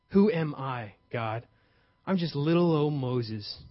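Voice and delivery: small, slow, doubting voice of Moses; insecure Moses. Retold or imitated. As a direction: shrink as you say it, unsure of yourself. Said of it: "you hear the insecurity in his voice".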